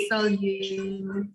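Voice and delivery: slow "salut", last vowel drawn out with no T; teacher's slow model of "salut", T silent; silent final T. Shown as a demonstration. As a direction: stretch "salut" and leave it open at the end. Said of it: "Don't pronounce the T in the end".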